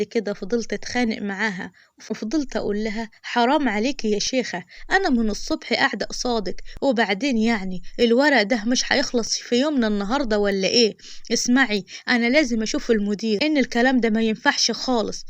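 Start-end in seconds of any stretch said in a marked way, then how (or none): 3.2-11.8 raised, exasperated complaint; retold yelling. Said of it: "وفضلت أزعق فيها". 12.1-13.4 insistent raised voice demanding the manager; retold yelling. Woman yelling at the clerk, demanding the manager, raised. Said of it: "وفضلت أزعق فيها". 13.5-15.2 raised, exasperated complaint; retold yelling. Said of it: "وفضلت أزعق فيها".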